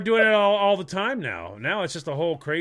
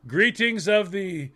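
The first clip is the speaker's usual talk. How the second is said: mock formal greeting; slower than usual. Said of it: "Is that okay".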